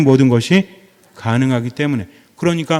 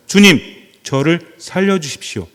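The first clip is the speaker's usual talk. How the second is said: cry for help; 3 semitones higher, 4 dB louder than usual. Retold or imitated. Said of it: "물에 빠져들면서 말합니다".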